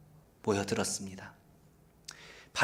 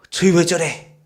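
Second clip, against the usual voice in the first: mock annoyed outburst, somewhat louder; retold irritation; 3 semitones higher, 6 dB louder than usual. Young believer snapping at people who displease them, retold irritation. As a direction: act out a mild burst of anger. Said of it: "막 화를 내는 거예요".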